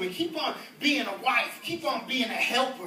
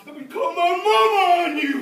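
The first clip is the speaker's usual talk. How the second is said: louder mock yell; threatening yell; 5 semitones higher, 11 dB louder than usual. A man in a brawl threatening to call his mama, mock yell. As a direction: call for backup. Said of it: "like a brawl".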